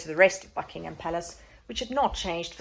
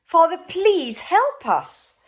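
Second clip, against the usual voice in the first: desperate plea; 10 semitones higher, 9 dB louder, much slower than usual. Acted. Boy begs father.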